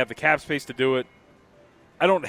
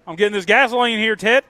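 loud, high mock Florida redneck accent; mocking a Florida guy at the gas pump in a redneck accent; 9 semitones higher, 6 dB louder than usual. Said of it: "You don't have to do the accent".

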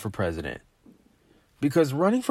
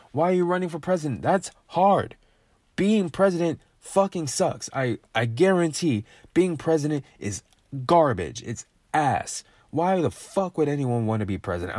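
higher, heated, pushing the words out; getting fired up about it; worked-up rant; 3 semitones higher than usual. Real, not acted. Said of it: "I'm getting emotional again".

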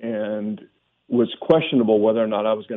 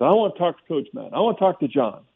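furious demand; 6 semitones higher than usual. Retold or imitated. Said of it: "I just got furious".

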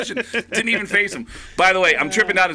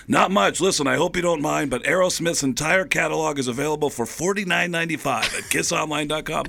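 Rock star impression. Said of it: "rock star impression".

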